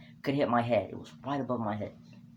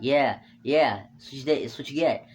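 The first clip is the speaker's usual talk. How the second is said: taunting; 2 semitones higher, 7 dB louder than usual. Retold or imitated. Taunting the crying bully.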